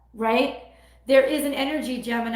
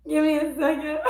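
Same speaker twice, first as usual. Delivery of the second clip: higher, strained while coughing; just swallowed a bug; 4 semitones higher than usual. Real, not acted. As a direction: catch your breath after a bug. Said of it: "swallowed a bug".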